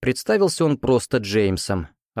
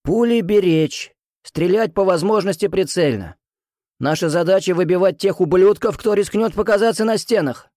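put-on higher, rough old musketeer's bark; hoarse powerful voice; 8 semitones higher, 3 dB louder than usual. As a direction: boom it hoarsely over the ranks. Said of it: "Хриплый, но мощный голос".

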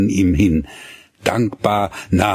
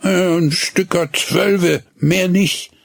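yawning; 10 semitones higher than usual. Acted. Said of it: "erwiderte er gähnend".

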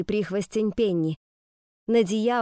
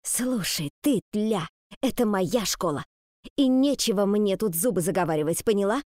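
snake woman voice. Acted. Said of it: "злобно, словно змея, прошипела".

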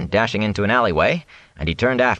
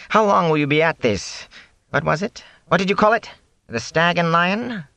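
high, probing peddler voice; Fane, nervous; 10 semitones higher than usual. Acted. Fane asks Rand about the inn, nervously. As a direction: fish for it with lifted questions.

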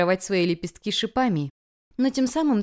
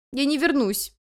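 gasping for air; 7 semitones higher than usual. A narrator's reading. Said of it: "ловя ртом воздух".

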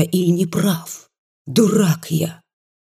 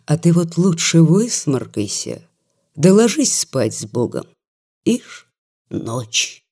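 yawning. Acted. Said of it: "зевая".

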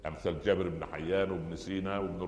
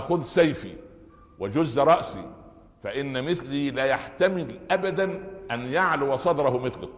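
haughty dying command, raised and loud; Abu Jahl; 4 semitones higher, 3 dB louder than usual. Acted. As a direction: proclaim it with lofty pride. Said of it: "الكبر لغاية ما إيه".

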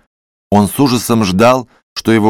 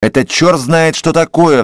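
outraged cry; 5 semitones higher than usual. Acted. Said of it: "вскрикнул вдруг Иван Дмитриевич".

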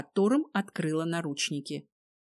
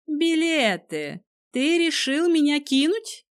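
despairing; 8 semitones higher, 4 dB louder than usual. A narrator's reading. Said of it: "В её голосе звенело отчаяние".

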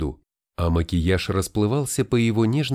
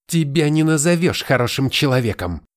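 higher, louder scornful retort; snorting retort; 5 semitones higher, 4 dB louder than usual. Acted. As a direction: snap back with a snort. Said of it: "фыркнула она".

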